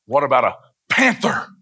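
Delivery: imitated kid hitting "panther" hard after a short lead-in; stress on panther. Daughter testing dad's bravado, heavy emphasis on "panther". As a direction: punch "panther" like an eager child's challenge. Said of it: "She put a lot of emphasis on the panther".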